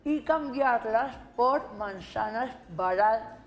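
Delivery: measured read-aloud with deliberate pauses; vocalization exercise. Shown as a demonstration. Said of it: "Lee el de la letra A".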